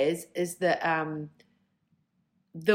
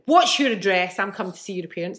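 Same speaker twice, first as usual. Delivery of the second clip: angry mum; 5 dB louder, faster than usual. Retold or imitated. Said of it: "She went".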